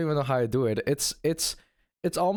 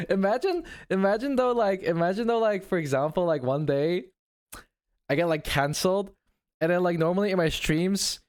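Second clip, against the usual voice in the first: higher, brighter streamer voice; 5 semitones higher than usual. Shown as a demonstration. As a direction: push the voice up high. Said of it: "I don't even like this voice".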